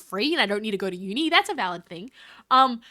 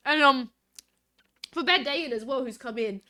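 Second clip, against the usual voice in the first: talking while chewing food; mouth full. Real, not acted. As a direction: say it through a mouthful. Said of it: "I'm munching on food in the background".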